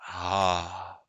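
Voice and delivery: slow hushed whisper; whispered creepy relish; savouring whisper. Acted. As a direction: breathe it out hungrily. Monster savouring a voice.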